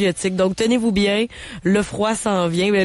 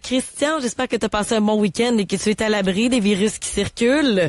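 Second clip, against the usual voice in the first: hoarse, raspy sore throat voice; rough, scratchy voice from a cold; smoker's rasp. Real, not acted. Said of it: "Ma voix éraillée".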